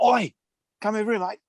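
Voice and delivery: high-pitched, botched Kiwi call; bad Kiwi accent. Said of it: "Is it Kiwi?".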